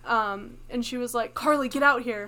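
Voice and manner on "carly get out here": loud mock call from the next room; retold mom yelling her out. Mom calling again.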